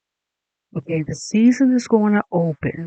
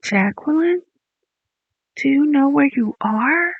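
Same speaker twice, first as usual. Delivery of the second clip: doctor; 6 semitones higher than usual. Retold or imitated. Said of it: "they're gonna say".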